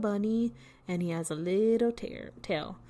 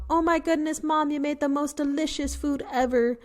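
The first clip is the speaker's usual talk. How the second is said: gushing to mom; 5 semitones higher than usual. Shown as a demonstration. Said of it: "instead of telling your mom".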